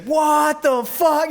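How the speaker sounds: drawn-out, high, laughing disbelief; stunned disbelief. Retold or imitated. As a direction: stretch it out in laughing shock. Everyone's shocked reaction retold.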